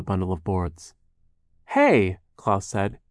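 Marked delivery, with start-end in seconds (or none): 1.7-2.2 raised, indignant call; lightly acted loud objection; protesting. Klaus objects to being tripped, protesting.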